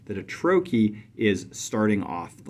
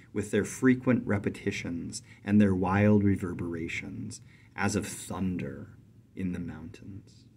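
poem reading. Acted. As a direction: let each line fall like a drum beat. Reads poem stanza aloud.

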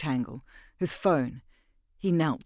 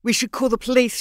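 much higher and louder, tearful; tearful plea; 9 semitones higher, 9 dB louder than usual. A narrator's reading. Mira, weeping over the body, pleads with Lemoine. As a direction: plead through tears to call the police. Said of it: "tears were coursing down her cheeks".

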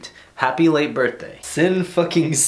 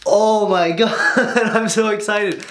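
laughing; 7 semitones higher than usual. Real, not acted. Excited opening a gift.

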